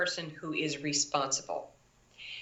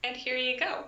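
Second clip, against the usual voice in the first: very gentle; 7 semitones higher than usual. Retold or imitated. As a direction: gently hand it back to her. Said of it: "very gently being like".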